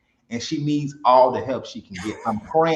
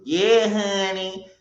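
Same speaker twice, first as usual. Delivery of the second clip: high, slow, drawn-out Mississippi drawl; Mississippi accent; 7 semitones higher, much slower than usual. Retold or imitated. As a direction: tease with an imitated Mississippi accent. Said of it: "Even you".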